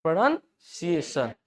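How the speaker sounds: "प्रोनंसिएशन" broken as "pronun... siyeshan"; slow syllable split. Shown as a demonstration. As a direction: pause midway through "प्रोनंसिएशन". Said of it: "ऐसे उच्चारण करना".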